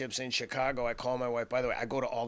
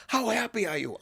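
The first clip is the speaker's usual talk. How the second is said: much higher and louder, gushing; thrilled wife; 10 semitones higher, 6 dB louder than usual. Retold or imitated. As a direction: gush like a proud, happy wife. Wife thrilled about the win.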